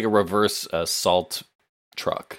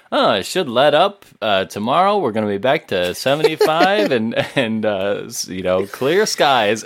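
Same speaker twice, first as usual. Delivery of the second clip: TV weathercaster; 2 semitones higher, 4 dB louder than usual. Acted. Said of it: "weathercasters, although it is snowing, being like".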